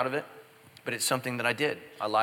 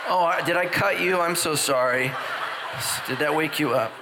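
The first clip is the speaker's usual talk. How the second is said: fake apology. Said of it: "scrape 'em on her leg like".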